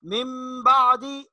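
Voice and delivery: मिन बादी slow, न becomes म; slow recitation. Shown as a demonstration. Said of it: "ये देखिए". (मिन बादी धीरे इकलाब के साथ)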